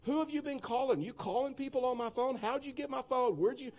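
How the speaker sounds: high-pitched barrage of accusing questions; acted-out frantic interrogation; snapped. Man grilling girl over his lost phone, snapping. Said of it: "I snapped".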